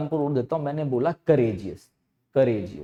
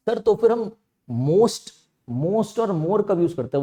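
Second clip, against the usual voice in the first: student asking; 6 semitones higher, slower than usual. Retold or imitated. Teacher voices a student's question.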